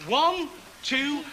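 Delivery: put-on lively children's entertainer; jolly them along, then count them in; talking to small children. Talks to group of children.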